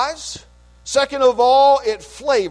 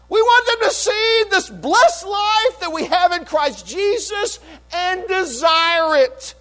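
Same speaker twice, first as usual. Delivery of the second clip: higher, rising fervent preacher's cadence; full-force preaching; 9 semitones higher, 4 dB louder than usual. Real, not acted. Pastor exhorting his church about the saved, fervent preaching. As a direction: build the list like a revival sermon.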